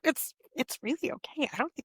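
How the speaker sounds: whispered reassurance. Real, not acted. Speaker reassuring Sicilian viewers, whispered aside.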